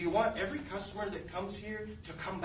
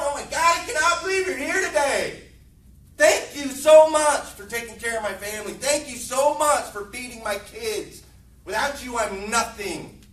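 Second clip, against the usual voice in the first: excited greeting; 2 semitones higher, 9 dB louder than usual. Acted. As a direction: greet the customer like their biggest fan. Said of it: "Be excited that they're here".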